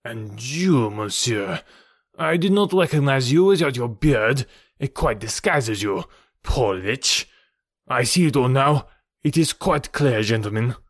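the Count realizing the plot, pitch leaping; dismayed Count. Acted. Count unmasks his accuser before gentlemen, dismayed.

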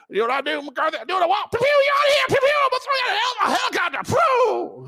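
high, shouted mock boss bragging; owner impression. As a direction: play the reckless owner firing everyone, hammed-up. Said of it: "I'll tell you what".

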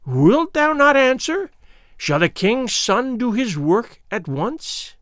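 put-on high, slow, eerie old crone voice; piped Gagool. Old witch Gagool questioning the doomed girl, high piping crone voice. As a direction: pipe it out like a wicked old witch. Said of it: "piped Gagool".

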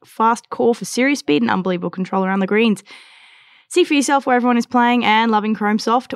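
upbeat sponsor ad read. Acted. Host reads sponsor ad to listeners, upbeat ad voice. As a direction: sell the golf ball like a radio spot.

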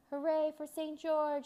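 high, loud, drawn-out hooray; cheering crowd shout. A narrator's reading. Crowd hailing Saint George after the dragon falls, cheering shout. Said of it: "they shouted".

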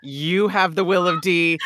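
mock triumphant declaration of a shared secret; gleeful proclamation. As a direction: shout it out gleefully through a laugh. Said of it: "Rouge was just like".

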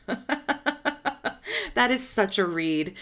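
laughing hard into the words; helpless giggle leading into the remark. Real, not acted. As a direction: burst out laughing, then comment. Laughs at the quote.

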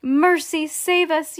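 high wail without much volume; narrator's restrained yell of panic; mock yell. A narrator's reading. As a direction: cry for mercy in a high voice. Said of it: "yelled Missus Beauregard".

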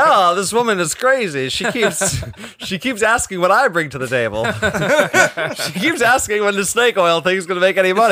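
giggling through a mock diagnosis; laughing while playing a doctor. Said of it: "They're like".

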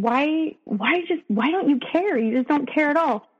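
a touch of upset in an imitated plea; retold tearful plea. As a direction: replay a hurt plea without fully crying. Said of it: "I'm crying, and I'm just saying".

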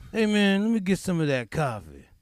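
bum begging. Retold or imitated. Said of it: "subway guy begging".

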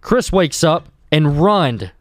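announcer voice. Acted. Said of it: "You want me to do my announcer voice?".

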